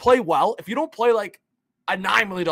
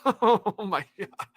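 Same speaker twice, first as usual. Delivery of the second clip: disbelieving laugh; 3 dB quieter, much slower than usual. Real, not acted. Laughing at the trade.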